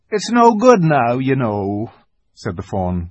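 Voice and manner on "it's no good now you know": sorrowfully. Acted. The fawn tells Lucy she cannot leave, sorrowful. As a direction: let the words sink with sorrow. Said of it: "very sorrowfully".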